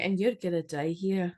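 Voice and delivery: put-on mixed Scottish and New York accent; Scottish New Yorker. Host retrying the witch's warning, in Scottish-New York accent. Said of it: "You need to be like a Scottish New Yorker".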